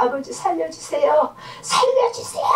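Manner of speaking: high plea rising to a strained cry; imitated crying out. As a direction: re-enact a desperate cry for life. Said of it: "소리 질러가면서".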